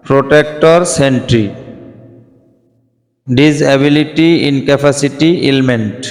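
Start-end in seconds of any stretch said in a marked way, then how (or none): 3.3-6.0 ডিসএবিলিটি drawn out syllable by syllable; slow careful pronunciation. Shown as a demonstration. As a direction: spell out ডিসএবিলিটি slowly for the class. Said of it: "শুধু উচ্চারণগুলি দেখিয়ে দিচ্ছি". (ডিসএবিলিটি ধীরে, প্রতিটি অংশ আলাদা করে)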